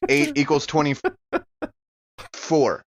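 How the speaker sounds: drawn-out sum, word by word; slow, deliberate arithmetic; slow adding. Real, not acted. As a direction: count it out slowly like it's hard. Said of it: "Math hard".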